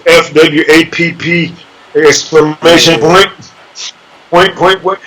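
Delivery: comic book narration. Retold or imitated. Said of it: "on Batman and Robin, where he goes".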